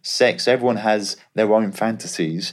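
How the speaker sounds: cheery Aussie agent checking in on his player; Australian agent impression. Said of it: "He goes".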